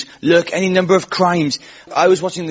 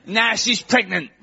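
slow, higher mock Essex punchline; Essex accent; 4 semitones higher, 3 dB quieter, slower than usual. Essex man confessing on a talk show, Essex accent. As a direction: land it slowly as the Essex guest. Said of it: "there was this guy on from Essex".

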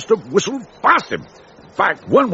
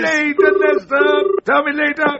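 raised, higher impatient dismissal; exasperated brush-off; 5 semitones higher than usual. Acted. Captain waving off the butler, exasperated raised voice.

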